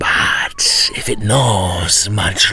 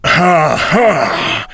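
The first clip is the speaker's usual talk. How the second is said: high loud scornful ha ha; gloating devil cackle; devil's mocking laugh; 8 semitones higher, 7 dB louder than usual. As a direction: laugh down at the fools.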